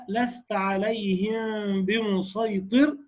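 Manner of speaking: drawn-out tajweed recitation; slow Quranic recitation. Shown as a demonstration. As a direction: chant the verse slowly and evenly. Quoting a Quran verse in recitation. (تلاوة بطيئة ممدودة)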